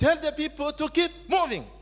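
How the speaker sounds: high pitch, loud.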